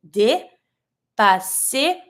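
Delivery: "dé, passé" split up, each E a clear "ay"; syllable-by-syllable pronunciation. Shown as a demonstration. French teacher showing the accented E, syllable-by-syllable pronunciation. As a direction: sound out "dé, passé" in pieces with an "ay" and a hissed S. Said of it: "On the first E, you have the accent, so you're gonna say".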